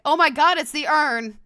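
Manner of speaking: startled discovery. Acted. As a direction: blurt it out in amazement. Startled discovery acted in game.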